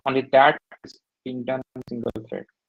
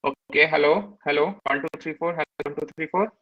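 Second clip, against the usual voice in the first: choppy mic test; glitchy robotic call; 3 semitones higher than usual. Real, not acted. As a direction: audio breaking up on a call. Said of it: "it's not".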